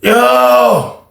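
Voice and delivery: loud, high call of "Yo". Retold or imitated. Inmate calling his friend at the dark cell door, shouting.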